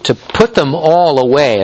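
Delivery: "all" lifted and leaned on; emphasize "all" as the key word of the quote; stress on ALL. Real, not acted. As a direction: put the weight on "all". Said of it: "I'm stressing the word all here".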